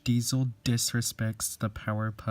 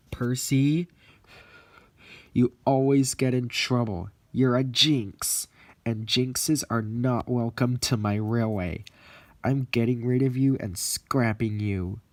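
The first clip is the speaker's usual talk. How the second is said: angry scolding; 7 dB louder than usual. Acted. Boss angrily firing Percy.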